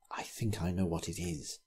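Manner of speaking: soft, ominous hushed voice; dark whisper. A narrator's reading. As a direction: hush it like a dark secret. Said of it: "he whispered darkly".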